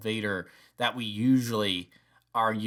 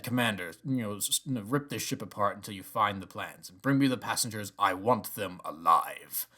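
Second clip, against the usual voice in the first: calm, commanding imitation; calm commanding Vader; 2 semitones lower than usual. Fan imitating a calmer Vader giving orders, calm and commanding. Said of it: "more calmly".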